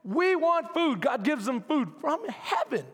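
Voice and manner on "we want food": whiny complaining. Retold or imitated. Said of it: "They're constantly complaining".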